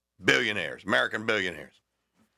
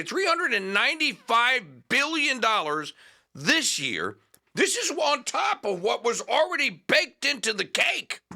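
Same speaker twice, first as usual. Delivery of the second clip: Massie impression; 9 semitones higher than usual. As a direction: mimic Massie's Kentucky accent, much higher. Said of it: "I'm trying to do my Massey accent".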